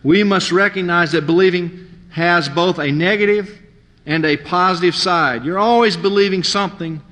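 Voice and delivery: measured sermon reading from a book; reading aloud. Shown as a demonstration. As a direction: read each line slowly and firmly to the congregation. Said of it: "I wanted to read this part".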